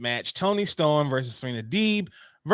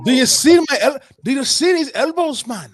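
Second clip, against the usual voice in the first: higher, louder put-on Irish accent; mock Irish brawler; 9 semitones higher, 8 dB louder than usual. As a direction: boast like a cocky Irish fighter. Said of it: "This accent, though".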